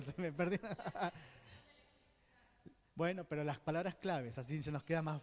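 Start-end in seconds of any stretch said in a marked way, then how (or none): 0.0-0.8 real laugh while admitting a memory lapse; laughing at own forgetfulness. Real, not acted. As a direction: chuckle through it, caught out.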